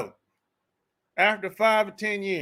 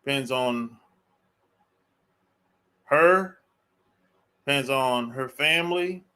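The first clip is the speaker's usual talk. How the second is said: ordinary talk, nothing marked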